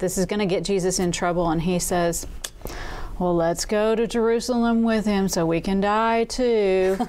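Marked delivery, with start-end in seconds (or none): 3.2-7.0 woeful, downcast, gloomy, resigned, hopeless character voice. Retelling what Thomas says before Lazarus is raised, in an Eeyore voice. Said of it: "in that Eeyore voice".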